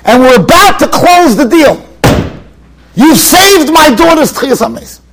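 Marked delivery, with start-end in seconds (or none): 2.9-5.0 grateful exclamation. Retold or imitated. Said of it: "a Jew came over to him".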